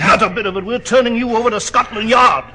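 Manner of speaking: loud, stern rebuke; firm refusal. Acted. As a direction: shut the bribe down hard. Watson refuses the crook's deal.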